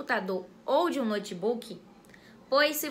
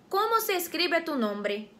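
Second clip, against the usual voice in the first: Spanish question; 3 semitones higher than usual. Shown as a demonstration. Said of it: "Exemplo pra facilitar".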